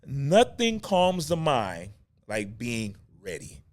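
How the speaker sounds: slow, measured read-out; deliberate reading of a written maxim; reading aloud. Real, not acted. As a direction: read it out slowly, word by word. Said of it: "I'm reading it to you".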